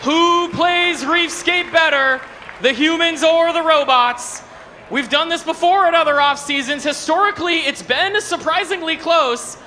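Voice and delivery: arena announcer. Acted. Guest game announcer intro.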